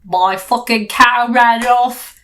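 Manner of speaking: hammed-up British grumbling. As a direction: moan it out like a fed-up Brit. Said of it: "The British person would be like".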